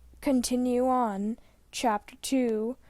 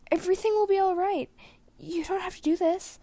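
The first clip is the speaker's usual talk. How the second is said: much higher, fast, loud begging; tearful plea; 10 semitones higher, 4 dB louder than usual. A narrator's reading. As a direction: reassure him while breaking down. Aragon begs in tears.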